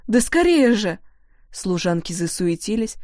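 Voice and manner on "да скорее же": louder, higher hurry-up call; the cook yells at the maids to be quick; urging shout. A narrator's reading. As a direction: push them to hurry. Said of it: "напустилась она на работниц".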